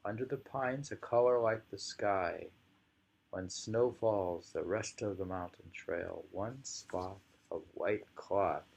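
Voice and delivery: slow poetry recital; poem reading. Acted. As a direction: reread the verse slowly, fading at the end. Reading the poem once more.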